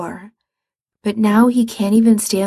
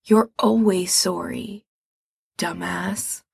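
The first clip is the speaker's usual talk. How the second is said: with a sigh; 4 dB quieter than usual. Acted. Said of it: "Mikey says with a sigh".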